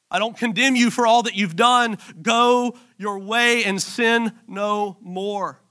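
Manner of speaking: slow, steady, sincere; Jesus forgiving the woman, slow and sincere; gentle release. Acted. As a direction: let each word land with mercy.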